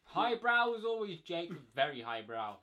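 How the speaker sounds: slow dry sarcasm; sarcastic. Real, not acted. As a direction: drag it out mockingly. Mocking friend's crude joke.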